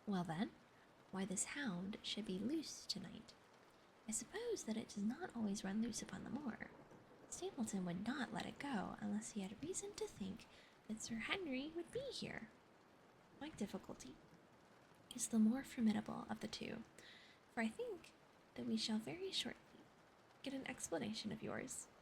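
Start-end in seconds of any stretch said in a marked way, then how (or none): 1.1-14.1 soft whispered storytelling; whispered reading. Acted. 15.1-19.6 whispered reading. Acted.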